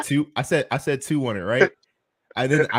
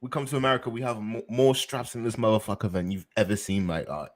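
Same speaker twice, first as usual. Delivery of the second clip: put-on London roadman voice, playful; mock roadman accent; 3 dB quieter than usual. Teasing his friends as a London roadman, mock accent. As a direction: lean into the London slang, half laughing. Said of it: "We ain't doing the U K voices tonight".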